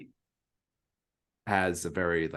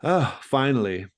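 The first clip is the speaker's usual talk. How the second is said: delighted lady; 2 semitones higher, 4 dB louder than usual. Acted. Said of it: "and she says".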